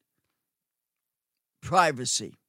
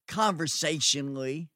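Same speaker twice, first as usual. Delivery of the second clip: ordinary talk, nothing marked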